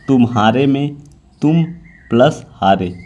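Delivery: तुम्हारे spoken as तुम, a pause, then हारे; तुम्हारे split with a pause at the juncture; juncture demo. Shown as a demonstration. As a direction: say तुम and हारे with a clear break between them. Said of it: "रूप ग्रामीय संगम कहते हैं".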